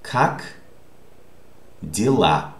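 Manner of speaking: "как", long pause, then "дела"; word by word. Shown as a demonstration. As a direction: present "как дела" one isolated word at a time. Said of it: "How do you pronounce this word".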